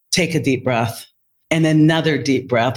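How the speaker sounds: low, gentle retold reassurance; loving calm. Leader calms the upset nurse, loving and calm. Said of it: "I said with all the love in my heart".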